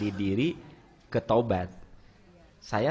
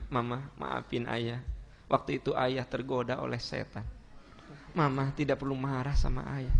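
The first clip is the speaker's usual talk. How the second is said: soft apology; 5 dB quieter than usual. Acted. Husband apologizing to his wife.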